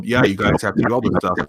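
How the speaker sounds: wobbly warbling call audio; garbled, glitchy internet call; glitching mic audio. Real, not acted. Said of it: "What is that noise?".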